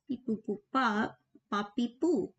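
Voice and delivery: beep-boop filler noises; toy-robot babble while stalling for words; playful robotic beeps. Pretend. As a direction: fill the gap with little nonsense beeps. Filler noises while thoughts catch up.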